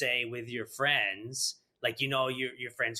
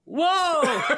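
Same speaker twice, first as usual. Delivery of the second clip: very high, loud, held-out woof; dog bark; 9 dB louder than usual. Acted. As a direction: howl out a cartoonish dog bark. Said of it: "Dogs are like that".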